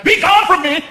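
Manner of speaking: high, haughty brush-off of a fan; mock diva dismissal. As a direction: shoo the fan away like a snobby star.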